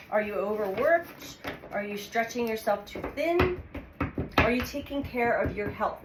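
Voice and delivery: ordinary delivery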